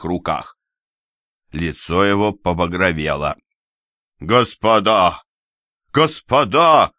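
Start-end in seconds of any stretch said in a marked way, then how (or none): 4.2-5.2 loud call to break up a fight; first call, loud but held. Acted. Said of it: "кричал Ряжский". 5.9-6.9 second call pitched higher, slower and louder; the escalated second cry; louder, pleading shout. Acted. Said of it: "кричал Ряжский".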